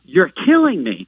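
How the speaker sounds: mild mock yell, drawn out slowly; retold yell. Patient protesting to the tech during the painful scan, mock yell. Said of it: "I yelled out".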